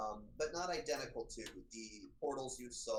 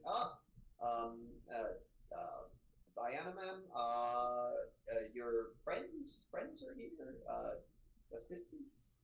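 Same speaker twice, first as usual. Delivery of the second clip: put-on hesitant, breathy young guard, unsure of his words; a flustered lad stumbling through an introduction; nervous young Fergus; slower than usual.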